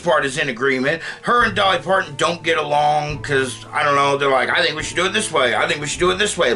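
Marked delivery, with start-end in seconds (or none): 4.5-6.5 mocking bicker. Bickering divas, mocked twice.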